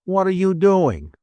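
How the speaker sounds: gruff. A narrator's reading. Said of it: "Laddie asked gruffly".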